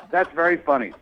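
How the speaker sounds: laughs through the words; amused little laugh while speaking. Real, not acted. Caller laughs at prank accusation.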